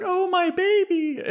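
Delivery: high-pitched comic cry of a mother; distraught mom. Retold or imitated. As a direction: imitate a panicked mother, hammed up for laughs. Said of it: "the mom is just like".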